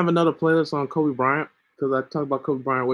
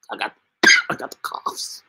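high-pitched voice. Real, not acted. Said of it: "talk in a high-pitched voice".

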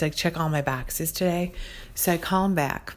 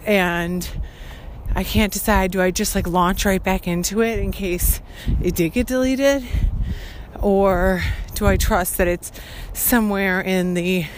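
loud, projected podcast voice; alarmed and loud, pushing the volume; 4 dB louder than usual. Real, not acted. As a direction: talk over a passerby's speakerphone. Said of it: "very loudly".

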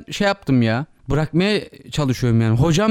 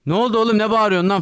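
higher-pitched mock challenge; retold confrontation; 4 semitones higher than usual. Men from the car confronting his friend, mock aggressive. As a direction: imitate someone squaring up for a fight.

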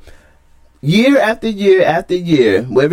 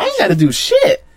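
laughing through a cheeky no; laughing refusal; 9 semitones higher than usual. Real, not acted. Host brushing off his co-host's demand, laughing. Playful refusal during baseball argument.

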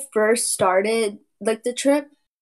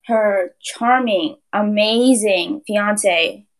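sarcastic; 4 dB louder, much slower than usual. Acted. Mocking praise of Brian Laundrie.

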